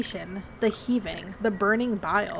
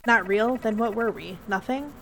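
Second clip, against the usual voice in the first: lovers' quarrel. Acted. Acted lovers' quarrel with ghost.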